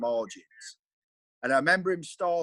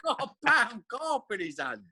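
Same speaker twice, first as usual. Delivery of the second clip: laughing; 20 dB louder than usual. Retold or imitated. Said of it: "He goes".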